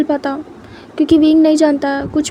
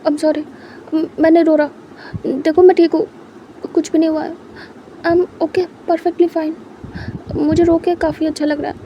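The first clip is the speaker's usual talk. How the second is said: tearful apology; 2 semitones higher than usual. Acted. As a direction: apologize while fighting tears. Lan Jan crying, apologising.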